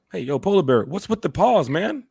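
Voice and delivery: lightly voiced bartender asking; a hint of a bartender.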